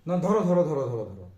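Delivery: shouting to catch the ball; loud call of dhoro dhoro. Retold or imitated. Teacher imitating kids yelling to catch, loud call. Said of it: "সবাই চিৎকার করো না".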